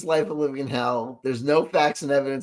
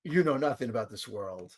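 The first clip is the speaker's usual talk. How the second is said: lower, much softer mock doom; mock ominous narrator; 6 semitones lower, 9 dB quieter than usual. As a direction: intone it like a grave villain. Mocking repeat of clip.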